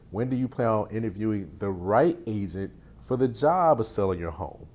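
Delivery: ending falls firmly on "home"; downswing on home. Shown as a demonstration. Coach showing a confident falling close to a seller. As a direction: hammer "home" down with authority. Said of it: "really emphasize that downswing".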